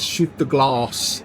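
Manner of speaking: slow, drawn-out villain order; lightly voiced Hans, slow and deliberate; slow mock order, "Shoot the glass" spaced out; Hans's line. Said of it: "It's the way he says it".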